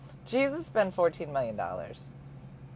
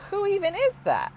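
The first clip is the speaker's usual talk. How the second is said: confused question; 13 semitones higher, 4 dB louder than usual. Retold or imitated.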